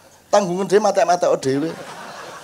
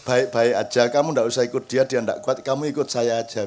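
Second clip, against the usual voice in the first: gentle coaxing; 6 semitones lower than usual. Shown as a demonstration. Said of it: "Anda bilang".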